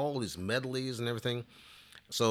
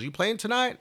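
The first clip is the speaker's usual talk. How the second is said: 1 curious question; 13 semitones higher, 4 dB louder than usual. Retold or imitated. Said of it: "He goes".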